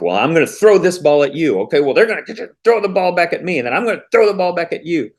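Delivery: mock tit-for-tat. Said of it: "back and forth".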